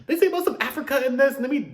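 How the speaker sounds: high, loud and laughing through the words. Real, not acted. Reacting to the group's concept, laughing loudly. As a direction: laugh while forcing the words out.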